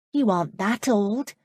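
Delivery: put-on bright young girl pressing a question; young woman's voice. Amanda's voice, narrated scene.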